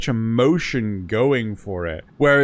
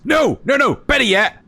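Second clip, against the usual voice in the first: much higher, loud eager outburst; excited shout; 9 semitones higher, 3 dB louder than usual. Real, not acted. Correcting himself to friends, excited and loud. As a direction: cut yourself off in excitement.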